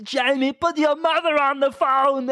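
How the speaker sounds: hammed-up fed-up father; dad in a high comic voice. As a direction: drag it out wearily. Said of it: "It's like".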